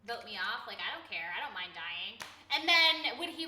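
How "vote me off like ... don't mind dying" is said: low, soft, offhand shrug; lightly imitated indifference, pitch dropping away; nonchalant. Imitating fellow streamer saying vote me off, nonchalant. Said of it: "Koi was like".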